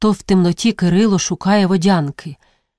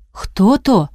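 calling out; 3 semitones higher than usual. Acted. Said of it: "обізвався Кирило".

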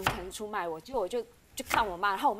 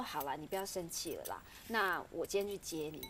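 soft, lower conciliatory voice; placating husband; 4 semitones lower, 9 dB quieter than usual. Retold or imitated. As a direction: imitate a husband gently making peace. Retold husband placating her by phone.

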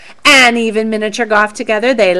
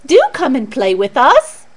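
pleading mice; 4 dB louder than usual. Acted. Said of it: "pleaded the mice".

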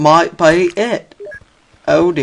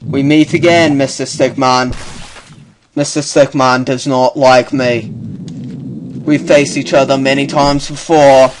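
nature documentary voice. Acted. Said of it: "voice for ... Bear Grylls".

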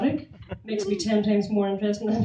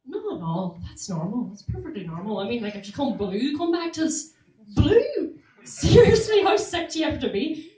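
dismissive doctor; 4 semitones higher, 4 dB louder than usual. Retold or imitated. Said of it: "They said".

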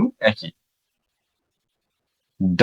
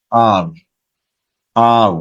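আর with a full American r; 2 semitones lower, much slower than usual. Shown as a demonstration. Teacher showing the US pronunciation of R. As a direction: roll out আর with a clear American r. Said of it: "US এ total এটা উচ্চারণ করবে".

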